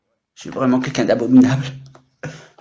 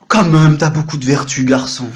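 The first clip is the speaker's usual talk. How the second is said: punchy, louder mock self-congratulation; mirror self-praise; 6 dB louder than usual. Man complimenting himself in the mirror, mock-admiring. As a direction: hit the opening hard, praising yourself. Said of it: "Je me regarde dans la glace".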